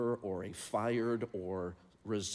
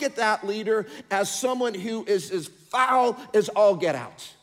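loud, high, fervent preacher voice; full-force preaching; 14 semitones higher, 10 dB louder than usual. Acted. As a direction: preach it out to the whole room.

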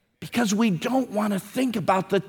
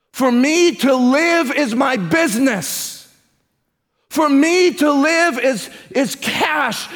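emphatic refrain; 3 semitones higher, slower than usual. Acted. Preacher builds the refrain.

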